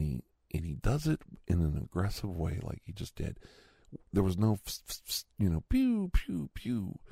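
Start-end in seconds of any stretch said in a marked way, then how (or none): 5.7-7.0 high-pitched "pew" firework noises; imitated fireworks. Man mimicking small fireworks for kids, high whistly noises. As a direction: mimic little rockets whistling off.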